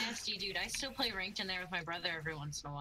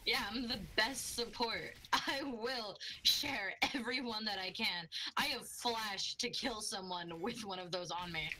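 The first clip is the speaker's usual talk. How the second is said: smug brag; 3 semitones higher, slower than usual. Real, not acted. Bragging as support.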